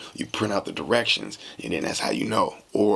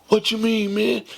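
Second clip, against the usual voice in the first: much higher, louder outcry; shocked protest; 12 semitones higher, 4 dB louder than usual. Retold or imitated. Friend protesting that the music will stop, squealed high. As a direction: squeal it in disbelief.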